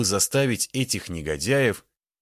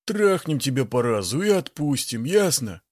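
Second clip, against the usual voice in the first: rough threat; 6 semitones higher than usual. A narrator's reading. Thug threatening the woman.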